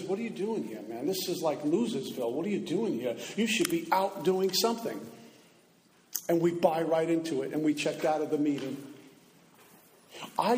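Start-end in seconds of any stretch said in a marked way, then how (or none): 0.0-5.0 sneering inner voice. Retold or imitated. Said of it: "suddenly the voice says".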